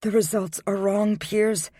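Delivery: insistent woman. A narrator's reading. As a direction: insist desperately. Jewel insists vehemently.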